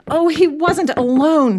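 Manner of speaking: high, loud, urgent outburst; bursting out. Acted. Janet bursting in to defend Merton, blurting. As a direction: rush in and blurt it. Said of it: "she burst out".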